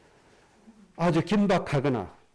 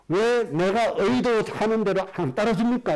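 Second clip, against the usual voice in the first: complaining people; 4 semitones higher than usual. Retold or imitated. Voicing the people complaining to God.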